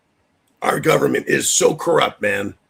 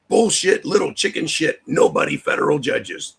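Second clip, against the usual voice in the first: angry outburst; 3 semitones higher than usual. Real, not acted. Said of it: "I'm a little passionate about this".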